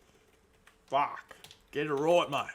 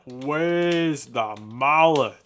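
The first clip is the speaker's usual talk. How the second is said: slow drawn-out repeat; 3 dB louder, much slower than usual. Acted.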